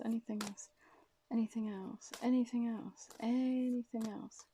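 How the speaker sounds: breathy whispered question; whispering. Real, not acted. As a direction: whisper it to the cards. Asking the cards repeatedly.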